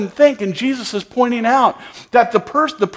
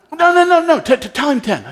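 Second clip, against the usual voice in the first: higher, laughing no, no, no; laughing insistence; 6 semitones higher than usual. Retold or imitated. Tourists urging him to offer ten, laughing.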